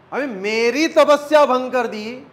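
proud sage's rebuke. Shown as a demonstration. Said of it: "अभी इसके पीछे thought जो है".

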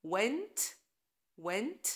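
went with clear W; W sound. Shown as a demonstration. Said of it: "تقروا الكلمات".

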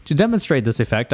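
ordinary delivery

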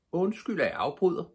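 high, rising mock-polite excuse me; polite interruption. A narrator's reading. Pippi politely interrupting the bull, high and cheeky. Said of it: "sagde hun og trak så hårdt".

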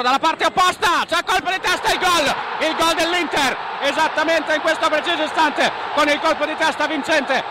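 rising, excited goal call; breathless italian goal commentary. Acted. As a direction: build to the goal and shout it. (telecronaca concitata del gol)

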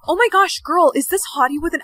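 gasp, then high-pitched gushing; excited amazement. Acted. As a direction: gush to a friend after a startled gasp. Friend amazed by the soulmate.

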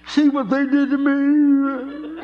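high, slow, mocking whine of a crybaby; mock a kid showing off his hurt, drawn out; whiny kid.

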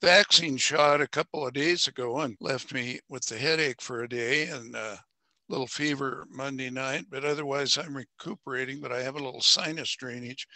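hoarse after being unwell; a rough, raspy sick voice. Real, not acted. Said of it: "Excuse my raspy voice".

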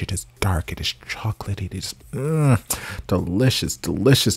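hushed, savoring whisper; swooning whisper. Real, not acted. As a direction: whisper it like a secret pleasure. Swooning over his deep voice.

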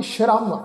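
ਸ਼ਰਮ beginning on sh, not s. Shown as a demonstration. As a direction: say ਸ਼ਰਮ with a clear sh at the start. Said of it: "ਇਸ ਸ਼ਬਦ ਦਾ ਪਾਠ ਉਚਾਰਨ".

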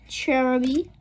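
ordinary delivery

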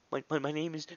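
high, stammering mock whimper; imitated crying. Crying kid on the phone to emergency dispatcher, mock whimper. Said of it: "he starts crying".

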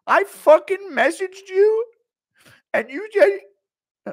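high, loud, slow drawn-out shriek; slow mock scream. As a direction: stretch every word as you wail at the coffin. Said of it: "he just screaming at a coffin".

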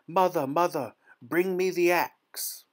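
high, urgent shout to mother; calling out. A narrator's reading. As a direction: call for help from up high. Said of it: "he began to call out".

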